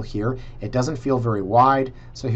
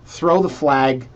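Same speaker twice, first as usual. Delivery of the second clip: "Throw the flag" drawn out slowly and a little louder; 4 dB louder, much slower than usual. Shown as a demonstration. Host signalling the editor, slowly drawing out "Throw the flag".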